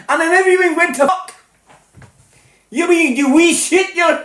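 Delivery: hammed-up Scouse-Scottish-Irish blend; mixed Scottish-Irish-Scouse accent. Host acts the night's story in a high mixed Scottish-Irish accent. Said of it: "I was, like, Scottish, Irish, bit of Scouse".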